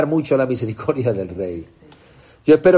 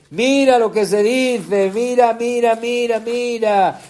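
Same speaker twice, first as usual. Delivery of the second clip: building excitement; 6 semitones higher, slower than usual. Shown as a demonstration.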